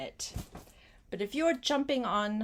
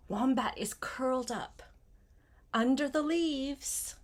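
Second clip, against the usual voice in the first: whisper; 3 semitones higher than usual. Acted. Reading, hiding wombat.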